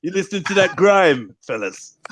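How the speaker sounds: light put-on Irish lilt; mock Irish accent. Local asking fellas about grime, mock Irish accent. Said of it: "Irish, Cornwall".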